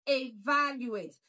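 "evaluate" with VAL stressed; stress on second syllable. Shown as a demonstration. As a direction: punch the second syllable of "evaluate", then fall. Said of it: "stress is on the second syllable".

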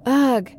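a loud shuddering ugh; shivering ugh. A narrator's reading. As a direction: shudder it out as if chilled. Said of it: "with a shiver".

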